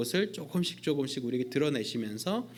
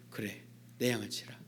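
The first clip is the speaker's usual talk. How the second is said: Jesus commanding; 5 semitones lower, 9 dB quieter than usual. Acted.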